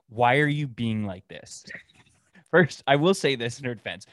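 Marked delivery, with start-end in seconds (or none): 0.1-1.7 slow, drawn-out whiny question; mock girlfriend whine. Neighbor's girlfriend asking her boyfriend, mock whine. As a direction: mimic the girlfriend's plea. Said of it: "any guy's ever heard this".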